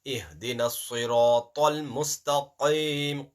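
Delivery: slow, siratal with a heavy s and ta; thick tone. Shown as a demonstration. Teacher showing the heavy letters slowly. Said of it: "Ta is a mustaliya letter".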